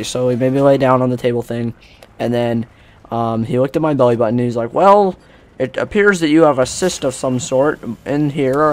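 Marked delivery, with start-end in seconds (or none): 4.7-8.7 slow, higher, measured doctor voice; imitating a doctor breaking the news slowly; mock doctor diagnosis.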